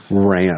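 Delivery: "ran" jumped up high; "ran" as a high, urgent punchline; emphatic RAN. Retold or imitated. Repeats word to stress urgency.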